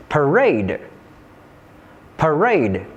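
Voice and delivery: "parade" with the weight on "rade"; light "pa", strong falling "rade" in "parade"; stress on second syllable. Shown as a demonstration. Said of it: "placed on the second syllable".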